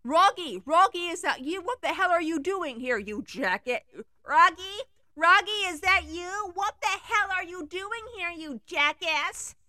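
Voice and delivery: high, loud indignant yelling; angry girlfriend. Acted. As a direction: tell off your ex furiously. Girl confronts ex-boyfriend.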